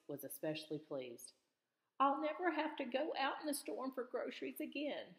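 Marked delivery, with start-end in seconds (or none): 2.0-5.1 high, bright and cheerful; beaming with relief; great cheer. A narrator's reading. Grandma Gates telling everyone her news, full of cheer. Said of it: "she said with great cheer".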